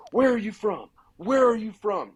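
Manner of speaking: high, loud, demanding yell; an angry hunter demanding where he's from; screaming. Retold or imitated. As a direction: hammer the question at him. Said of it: "Like, screaming in my face".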